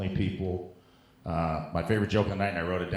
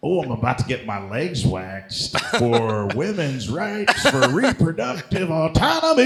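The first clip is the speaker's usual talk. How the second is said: higher, louder, overblown pride; mock earnest activist; 7 semitones higher, 7 dB louder than usual. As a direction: ham up the noble sacrifice.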